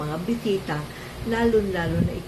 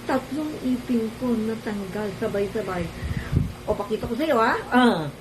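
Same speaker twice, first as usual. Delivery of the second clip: talking through missing teeth; gap-toothed speech; missing front teeth; 4 semitones higher than usual. Real, not acted. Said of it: "bungi ako eh".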